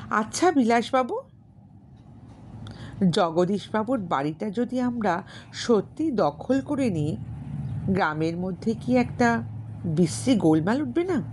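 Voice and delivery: lightly voiced heroine, hesitant question; Vijaya's voice. Vijaya's dialogue in a novel.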